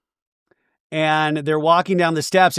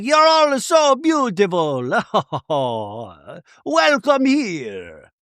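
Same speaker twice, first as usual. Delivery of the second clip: Michalis, excited; slower than usual. Retold or imitated. Cousin welcomes the women, hammed-up delight. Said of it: "And he's like".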